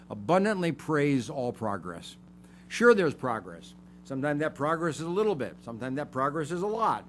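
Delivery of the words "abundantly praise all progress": Abundantly leaned on hard as the key word; stress on abundantly. Shown as a demonstration. Preacher telling the congregation to praise progress, stressing Abundantly. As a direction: hit Abundantly, then let the rest fall. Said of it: "put the emphasis on abundantly".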